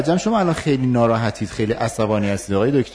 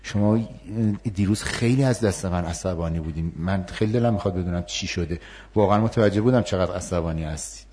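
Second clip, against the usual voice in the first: softer, sincere approach to a colleague the next day; calm empathic demo; 4 semitones lower, 5 dB quieter than usual. Shown as a demonstration. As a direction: gently ask what happened, a little softer.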